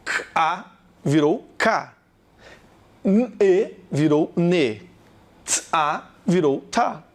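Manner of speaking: "K, A virou K" spelled out slowly, letter to sound; walk through each letter and its sound deliberately; slow sound breakdown. Shown as a demonstration. Teacher showing how letters become sounds, slow. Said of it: "Presta atenção".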